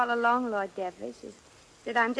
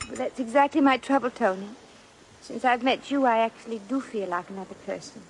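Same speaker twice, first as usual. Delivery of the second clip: put-on American girl putting on a refined British accent; fake British accent. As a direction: keep the put-on English accent polite and careful. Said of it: "your accent".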